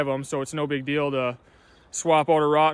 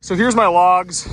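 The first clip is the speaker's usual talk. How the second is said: shouting over machinery; 2 semitones higher, 8 dB louder, slower than usual. Real, not acted. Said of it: "Sorry, we have the generator running".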